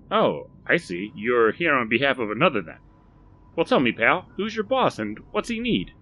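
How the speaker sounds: hearty shopkeeper greeting; Barry's eager voice. Acted. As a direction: chirp it like a keen salesman. Shopkeeper questioning stranger.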